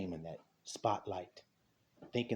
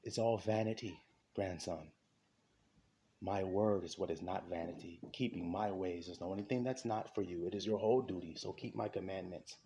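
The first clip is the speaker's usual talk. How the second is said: lower, softer acted voice; calm fatherly counsel; 3 semitones lower, 5 dB quieter than usual. God advising a grandson on vanity, calm and low. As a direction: counsel gently, voice sinking low.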